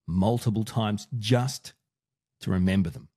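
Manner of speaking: deliberately slow, evenly paced speech; slow each word right down; slow motion. Shown as a demonstration. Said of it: "That was me talking in slow motion".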